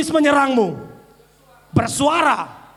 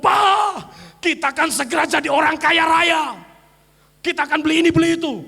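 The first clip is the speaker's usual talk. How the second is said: excited wife; 2 semitones higher than usual. Retold or imitated. Wife thrilled telling husband they're rich. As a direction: blurt the good news. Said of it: "Tapi kalau saudara ngomong".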